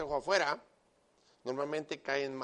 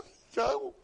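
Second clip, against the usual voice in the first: high, loud, panicked retelling of his own cry; high panicked imitation of himself; 5 dB louder than usual. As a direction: squeal it out like a man who just hit his wife in his sleep. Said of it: "y yo decía".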